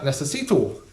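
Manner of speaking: necesito with a flat Northern English final oh. Shown as a demonstration. Comic mocking his own Northern English Spanish. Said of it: "I've been saying that".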